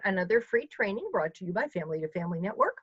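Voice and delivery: fast, salesy ad read; infomercial voice. Real, not acted. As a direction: rattle it off like a TV ad. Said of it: "I sound like an infomercial".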